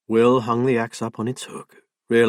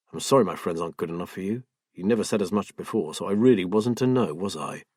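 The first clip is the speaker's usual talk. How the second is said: hurt and bitter; 3 semitones lower, faster than usual. Acted. Husband hurt, bitter reply.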